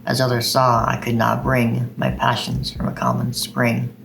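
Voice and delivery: slow, measured poetry reading; unhurried recital voice with steady cadence; poem recitation. Acted. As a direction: read it like a poem to an audience. Reads Poe poem aloud.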